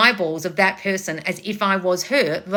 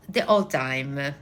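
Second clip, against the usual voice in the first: slow, lower Italian-accented delivery; 5 semitones lower, 3 dB quieter than usual. Shown as a demonstration. Coach demonstrating her stage role, Italian accent. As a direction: draw it out like a stage Italian aunt. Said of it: "I spoke like this".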